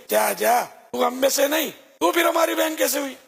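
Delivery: contemptuous. Acted. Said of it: "بڑی حقارت کے ساتھ".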